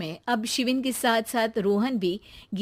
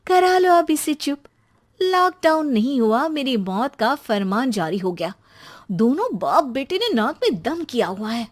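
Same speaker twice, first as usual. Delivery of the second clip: fed-up mother; 3 semitones higher than usual. Acted. Geeta voiced as fed-up mother.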